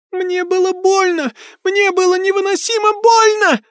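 put-on very high ghost girl crying out; screaming ghost child. A narrator's reading. Ghost girl screaming about her pain. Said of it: "закричала Молли".

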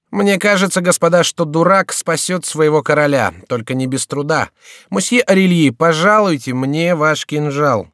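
pleased with his own cleverness, mocking; lightly voiced jester. Шико handing the lute, smug jester voice.

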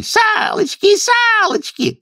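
high squeaky call; kikimoras shouting. A narrator's reading. Kikimoras call out tag to the friends, high squeal. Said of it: "кикиморы закричали".

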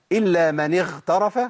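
اغترف with the gh devoiced to kh; wrong ghayn. Shown as a demonstration. Teacher recalling the earlier mistake, deliberately mispronounced. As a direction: let the gh of اغترف slip into kh. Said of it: "ما ينفعش يا شيخ".

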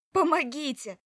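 high, loud cry at full voice; trapped woman shouting to be heard; shouting for help. Acted. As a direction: yell for help with everything you have. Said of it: "закричала я во весь голос".

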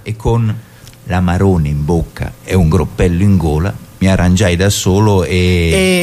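slow, mock-solemn verse; poem recital. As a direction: declaim it with grandeur, building up. Reading a comic wine poem. (declamazione solenne e ironica)

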